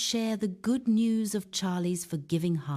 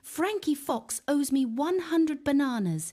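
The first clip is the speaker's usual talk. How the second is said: roaring; 8 semitones higher than usual. Acted. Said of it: "Charlie roars".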